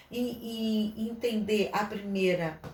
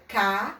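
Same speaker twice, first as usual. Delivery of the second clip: K said louder on its own; louder isolated letter; letter sounded out; 5 dB louder than usual. Shown as a demonstration. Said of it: "aí ele bota o K".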